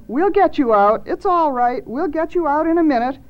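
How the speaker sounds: high, coaxing reassurance; soothing call. A narrator's reading. Marcy promises Mittens a rescue, soothing call. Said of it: "she called as soothingly as she could".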